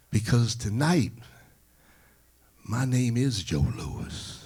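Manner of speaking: loud, solemn proclamation; ringing champion's climax; proud declaration. Acted. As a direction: announce it grandly, slowing on the name. Ali delivers his climactic declaration.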